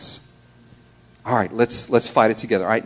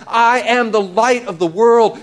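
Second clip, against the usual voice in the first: raised, proclaiming voice; imitated public cry; 5 semitones higher than usual. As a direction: declare it out to the crowd. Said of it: "Jesus cried out and says".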